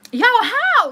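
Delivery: high, loud startled yelp; shocked by a viewer comment; surprised. Real, not acted. Host reacts to a viewer comment with a loud high yelp.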